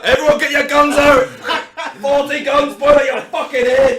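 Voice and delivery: rallying shout. Acted. Rallying family to draw guns.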